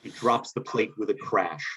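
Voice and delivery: ordinary talk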